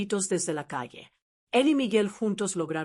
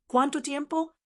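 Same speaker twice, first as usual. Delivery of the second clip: furious high roar of a question; father roars at the trembling family, furious; 7 semitones higher than usual. A narrator's reading. Enraged father roars at his daughters, high and furious. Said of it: "Volvió a rugir mi padre".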